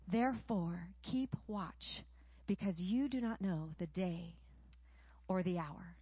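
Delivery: solemn story-like reading of a parable; scripture reading. A narrator's reading. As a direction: read scripture aloud to a congregation.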